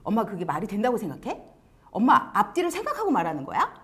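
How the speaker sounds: quick, mildly acted backtalk; talking back. Child challenging mother's logic, lightly acted talking back. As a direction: answer back in a quick rush. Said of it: "말대꾸를 하기 시작합니다".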